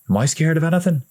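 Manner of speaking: big brother shrugging off fear; older brother voice. A narrator's reading. Older brother answers the little one, boyish voice.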